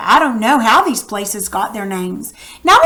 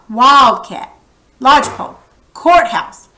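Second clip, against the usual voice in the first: Wildcat, Lodgepole, courthouse with WILD, LODGE, COURT louder; strong first half, weaker second in Wildcat, Lodgepole, courthouse; primary and secondary accent; 3 dB louder than usual. Shown as a demonstration. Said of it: "this has the secondary accent because it's not as loud".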